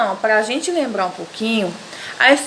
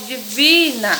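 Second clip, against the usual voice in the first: "divina" with "vi" held a little; stress on VI. Shown as a demonstration. Teacher pointing out the strong syllable, stress on "vi" in "divina". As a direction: mark the "vi" in "divina". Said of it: "tem a sílaba mais forte".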